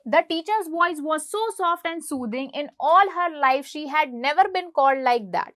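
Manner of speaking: slow, deliberate read-aloud of the English text; slow textbook reading. A narrator's reading. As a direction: read each word out slowly for the class.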